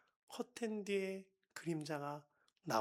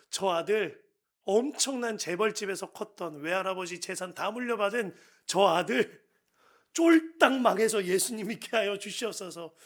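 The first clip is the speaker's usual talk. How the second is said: loud, pleading prayer cry; fervent prayer; 3 semitones higher, 10 dB louder than usual. Retold or imitated. Pastor praying loudly for his rich son.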